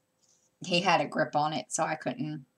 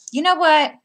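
high, loud mock challenge; teasing; 12 semitones higher, 12 dB louder than usual. Mother teasing her son about his shopping, loud high teasing. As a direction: tease him with a big setup. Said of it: "I was teasing him".

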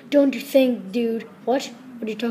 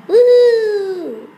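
high, loud celebratory woohoo with a laugh; excited whoop; 8 semitones higher, 7 dB louder than usual. Pretend. Footballer celebrating his goal, loud excited whoop. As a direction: cheer like you just scored.

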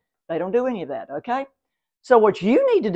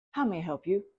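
softer, calm offer of help; 4 semitones lower, 8 dB quieter than usual. Shown as a demonstration. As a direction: say it calmly, no energy. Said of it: "Be calm".

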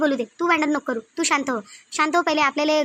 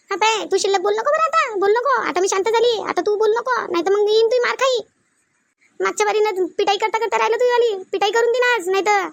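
heated warning in raised pitch; quarrelsome threat; 3 semitones higher than usual. Acted. Woman threatening a rival member with a beating, heated. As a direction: threaten her, pitch pushed up.

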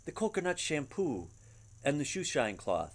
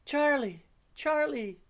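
much higher, joyful cries of his name; overjoyed; 13 semitones higher, 4 dB louder, slower than usual. Acted. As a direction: cry his name in delight. Sophie overjoyed at his return.

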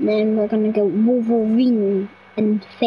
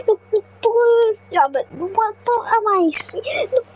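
higher pitched, delighted discovery; excited surprise; 7 semitones higher than usual. Real, not acted. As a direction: point it out with wide-eyed glee. Spots a surprising creature in game.

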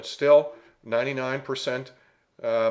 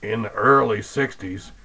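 slightly lowered, altered voice; disguised deep voice; 2 semitones lower than usual. Acted. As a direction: disguise your own voice. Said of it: "one with a disguised voice".

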